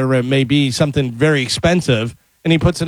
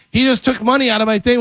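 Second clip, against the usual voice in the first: higher, complaining put-on voice; indignant victim; 8 semitones higher than usual. Victim telling a stranger he was robbed, high and whiny. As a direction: tattle to the bystander. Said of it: "and the guy goes".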